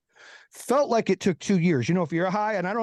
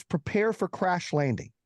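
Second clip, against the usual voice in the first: stewardess announcement. Retold or imitated. Stewardess tells passengers over the intercom, slow mock announcement. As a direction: announce it slowly, imitating the stewardess. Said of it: "she gets on the thing".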